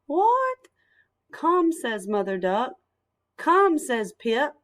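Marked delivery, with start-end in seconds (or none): 0.1-0.7 high, loud startled What; surprised duck. Acted. Mother Duck surprised at the ducklings, high and loud. 1.3-1.7 high, loud call; calling come. Acted. Mother Duck calling her babies, high and loud. 3.4-3.8 high, loud call; calling come. Acted. Pip calling the ducklings along, high and loud.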